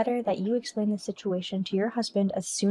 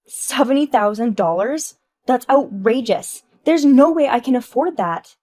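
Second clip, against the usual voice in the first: outraged shout; 3 semitones higher, 7 dB louder than usual. Acted. Wife shouting at her friend over the repair cost. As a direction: throw the price back at her.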